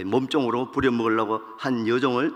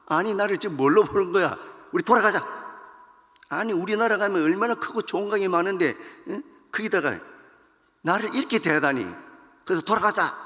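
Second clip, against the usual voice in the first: angry general; 6 semitones higher than usual. Acted. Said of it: "얼마나 화가 났겠어요".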